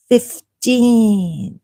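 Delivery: usual speaking voice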